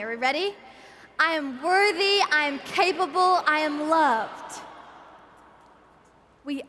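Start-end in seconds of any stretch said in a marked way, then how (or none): 1.2-4.6 louder crowd chant together; ragged group unison. Acted. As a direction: say it all together, loud. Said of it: "say it one more time, all together with me".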